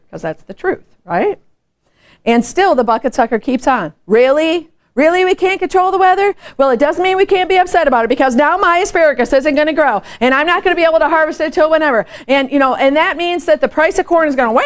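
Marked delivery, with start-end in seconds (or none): 4.1-14.6 whiny complainer. Retold or imitated. Bucket sucker whining about weather.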